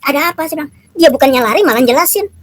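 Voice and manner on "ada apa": higher, amazed questioning; puzzled surprise. Retold or imitated. Startled that the light answered his verse, amazed. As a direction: wonder aloud in disbelief. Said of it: "saya menjadi kaget".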